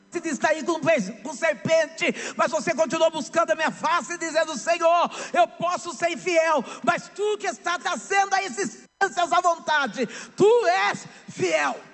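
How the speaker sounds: rising preacher's cry, sung in places; pregação inflamada. Acted. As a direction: build to a shouted climax of faith. Repeats the sermon climax. (pregação em alto brado, quase cantada)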